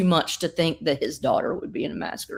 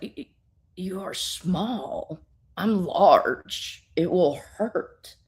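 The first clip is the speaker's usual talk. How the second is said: lightly voiced giant; much slower than usual. Giant warns little Supergirl.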